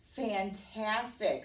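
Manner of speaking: slow, stretched-out admiration; admiring praise. Acted. Princess flattering the dragon, admiring. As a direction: draw the praise out.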